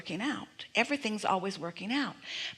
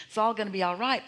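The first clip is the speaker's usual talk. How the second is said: quick, uneasy reassurance, leaning on the words all right; worried reassurance; 3 dB louder, faster than usual. Shown as a demonstration. Guide contrasting a fearful reassurance, worried and hurried. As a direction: say it as if it might not be all right. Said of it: "puts the emphasis on what's not all right".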